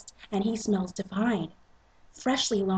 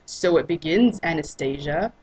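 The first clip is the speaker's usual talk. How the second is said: sultry Christian; 3 semitones lower than usual. Acted. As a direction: savor the name with a rise. Christian voiced, teasing.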